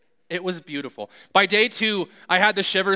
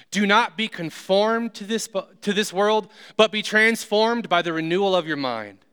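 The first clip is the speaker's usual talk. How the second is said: scripture reading. Acted. Preacher reading Romans to the congregation, declaiming. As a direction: proclaim the verses to the room.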